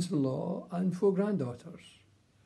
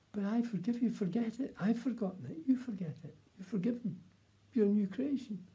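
higher, gentle and reassuring, a touch of a heavenly voice; 6 semitones higher than usual. Retold or imitated. The voice forgiving a weeping man, gently reassuring. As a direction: soothe him like a forgiving voice from above. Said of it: "this voice was very reassuring and telling me nice things".

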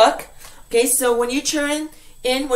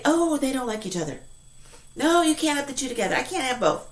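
mock objection; 5 dB quieter, much faster than usual. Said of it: "usually we say".

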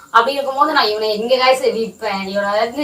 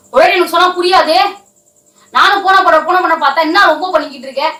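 raised, higher-pitched complaint; irritated scolding; 5 semitones higher than usual. Acted. Prankster quarrelling over money and selling the dog, irritated scolding.

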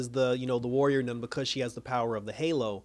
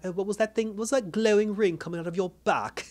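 high-pitched mock amazement; retold astonishment; 7 semitones higher than usual. Recapper quoting onlookers at the glowing ring, mock astonished. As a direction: imitate baffled onlookers, voice raised high.

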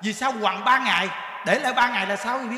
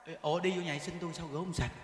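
put-on complaining old nun; 6 semitones lower, 11 dB quieter than usual. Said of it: "bà nói vậy nè".

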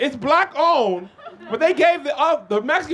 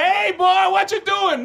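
mock racist porch caller; 8 semitones higher than usual. Racist on rocking chair calls out.

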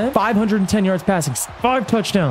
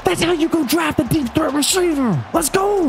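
much higher, stretched-out screaming joy; ecstatic yell; 14 semitones higher, much slower than usual. Real, not acted. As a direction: scream it long and high like the best play ever. Deep touchdown pass lands.

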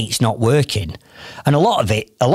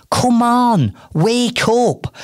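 urgent wake-up call; 6 semitones higher, much slower than usual. Real, not acted. Coach urging lazy business owners.

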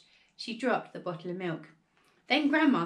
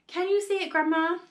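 high, raised calling voice; eager shout; 8 semitones higher, 5 dB louder than usual. A narrator's reading. George shouting up to Grandma, eager high shout. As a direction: call up to someone far off. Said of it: "George shouted".

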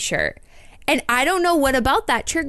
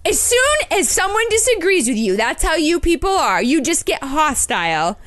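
high, laughing retelling of his accusation; mocking his lecture, pitched up through a laugh; amused incredulous retelling; 5 semitones higher than usual. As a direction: quote him while laughing at the absurdity.

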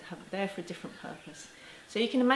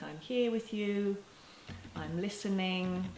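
gentle soothing tone; slower than usual. Shown as a demonstration. Parent soothing a crying child, slow and tender. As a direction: say it slowly, calm and present. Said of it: "it's the kind of tone".

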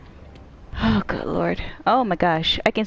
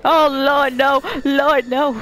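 frightened; 4 semitones higher, 6 dB louder, slower than usual. Real, not acted. Scared by monster in game.

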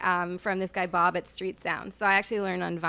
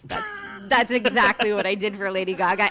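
put-on Valley Girl voice; 6 dB louder than usual. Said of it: "stuck-up, snotty Valley Girl voice".

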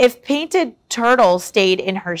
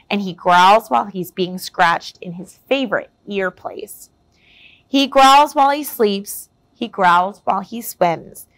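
rhyming picture-book read, lively and clear; story narration. A narrator's reading. Reading a rhyming tale to young listeners, lively storyteller voice. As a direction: read it like a bedtime story to kids.

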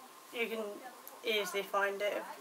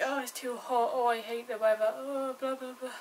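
mock whinging; 2 semitones higher than usual. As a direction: imitate moaning Brits, lightly whiny. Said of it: "they're like".

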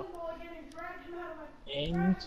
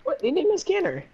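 frustrated shout. Real, not acted. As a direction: shout out in disbelief. Teammate fails to scan, frustration.

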